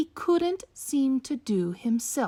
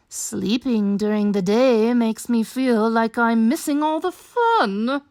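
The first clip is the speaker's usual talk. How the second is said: lightly voiced night creature; 5 dB louder than usual. Night animal complains.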